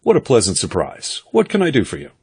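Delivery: hearty welcome lifting high at the end; hail-fellow-well-met. A narrator's reading. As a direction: play the hail-fellow glad-hander. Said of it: "in his hail fellow well-met voice".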